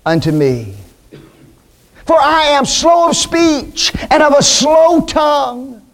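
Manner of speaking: a hint of a reluctant Moses begging the Lord; Moses pleading. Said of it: "And Moses said unto the Lord".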